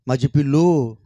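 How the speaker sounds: loud mock endearment; imitating affectionate phone talk; doting pet name. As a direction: play up a lovey-dovey nickname. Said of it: "काय लाडामध्ये".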